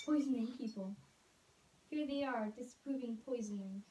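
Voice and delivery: put-on soft read-aloud to kids; quietly reading a funny kids' book. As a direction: read the diary page to the children.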